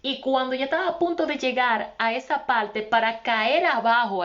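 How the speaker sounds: ordinary talk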